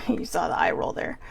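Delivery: whispered aside through a small laugh; a quick giggly whisper to the viewer. Real, not acted. Talking to viewers, a laughing whispered aside.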